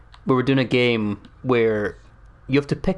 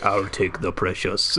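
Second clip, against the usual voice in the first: slow, lower action-star Smeagol; Arnold Schwarzenegger; 4 semitones lower, slower than usual. Acted. Action star claiming the precious, slow Austrian voice. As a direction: state it heavily, Austrian accent. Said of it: "Smeagol from The Lord of the Rings".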